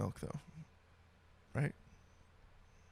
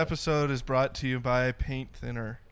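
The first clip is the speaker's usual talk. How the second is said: mock sponsor read; unenthusiastic ad read. Podcast host improvising a paint thinner ad, deadpan and unenthusiastic. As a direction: read it like a sponsor spot you don't care about. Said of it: "lack of enthusiasm in that was just stellar".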